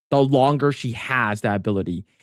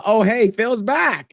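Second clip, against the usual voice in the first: slow drawn-out greeting; 7 semitones higher, slower than usual. Shown as a demonstration. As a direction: stretch out every word of hey, Phil's back. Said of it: "I mean".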